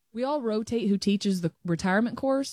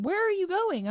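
imitating husband's surprise; 9 semitones higher than usual. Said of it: "he's in the kitchen going".

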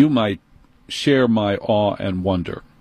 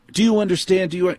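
condescending manager; 8 semitones higher, faster than usual. Retold or imitated.

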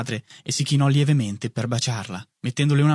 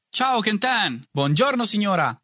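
richiamo allegro, più acuto; saluto gridato; 9 semitones higher than usual. A narrator's reading. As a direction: chiamali da lontano, alto e squillante. Compagno saluta passando sul binario. (saluto squillante e acuto)

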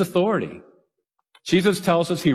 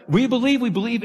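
high, excited crowd chant; eager crowd cheering; 9 semitones higher than usual. Retold or imitated. Crowd at Niagara cheering Blondin on, high and excited. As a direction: cheer it like a thrilled crowd at the falls. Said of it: "Do you think I can go across".

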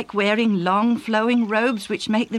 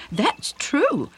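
emphatic; 7 semitones higher than usual. Acted. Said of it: "Judith said emphatically".

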